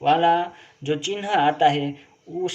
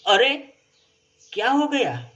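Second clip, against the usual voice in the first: startled, voice jumping much higher; surprised exclamation; 7 semitones higher than usual. Shown as a demonstration. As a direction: gasp it out as if shocked by news. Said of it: "भाव व्यक्त होता है".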